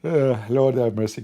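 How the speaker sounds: mid-yawn groan. Real, not acted. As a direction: say it through a yawn. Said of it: "Guys, I'm yawning".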